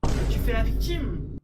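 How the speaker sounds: furious scream. Acted. Accusing the roommate of playing victim, screaming. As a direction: scream the accusation at full force.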